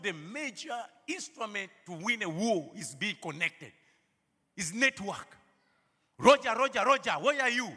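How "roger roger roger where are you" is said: loud mock radio call shouting for Roger; playful shouted radio call. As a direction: bark it like a soldier on the field radio. Soldier radio call in sermon.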